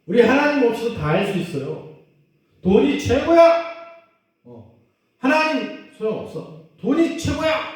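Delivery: mock the proud, money-loving world; worldly people boasting money is best, hammed-up arrogance; arrogant boasting. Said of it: "교만한 거".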